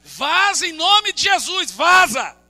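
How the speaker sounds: retold rebuke. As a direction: cast it out firmly.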